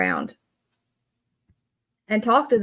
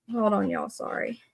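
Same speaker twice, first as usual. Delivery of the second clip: whispered aside; 7 dB quieter than usual. Real, not acted. Aside off-mic during live stream.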